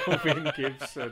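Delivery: saying the name through laughter; soft, laughing echo of the name. Real, not acted. Co-host repeats a funny name, laughing.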